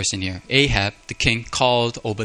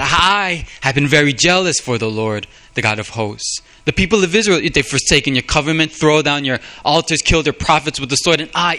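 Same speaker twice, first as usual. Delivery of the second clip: a touch higher and louder, aggrieved prophet; Elijah complaining to God; 3 semitones higher, 3 dB louder than usual. Retold or imitated. Preacher voicing Elijah complaining to God, aggrieved. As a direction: read it as Elijah pleading his case. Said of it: "you look at how Elijah talks with God".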